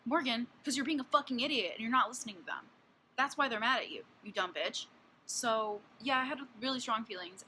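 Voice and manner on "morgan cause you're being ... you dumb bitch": raised, higher voice scolding a fictional idiot; yelling at a character in a book; exasperated rant. Retold or imitated. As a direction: tell her off, fed up and loud. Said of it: "And I'm like".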